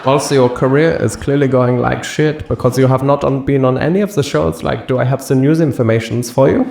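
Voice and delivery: high, needling know-it-all; snide judging voice. Retold or imitated. The judging thing compares him to Alex, high and snide.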